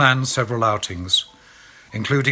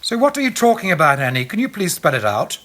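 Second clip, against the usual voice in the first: high, loud demand; 9 semitones higher, 5 dB louder than usual. A narrator's reading. Alex angrily demands Annie spell it out. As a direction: demand it, furious. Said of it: "I demanded".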